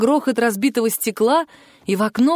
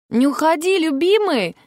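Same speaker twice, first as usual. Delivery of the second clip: пискляво, громко; squeaky exclaim; 8 semitones higher than usual. A narrator's reading. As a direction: squeal it out to keep him. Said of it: "пискляво воскликнула Вероника".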